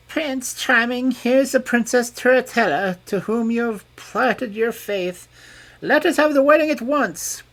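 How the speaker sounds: a fairy giving orders; commanding fairy. A narrator's reading. Fairy presents the princess.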